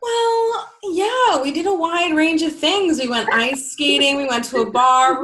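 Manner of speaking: hoarse, worn-out voice after a night out; rough, strained voice from screaming. Real, not acted. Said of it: "Why is your voice, like, not there?".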